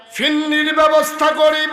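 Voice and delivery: high, loud anguished cry.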